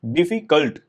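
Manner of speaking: डिफिकल्ट in beats, di-fi-cult; syllable by syllable. Shown as a demonstration. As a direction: sound out डिफिकल्ट in separate parts. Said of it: "जिनमें एक से ज्यादा syllables".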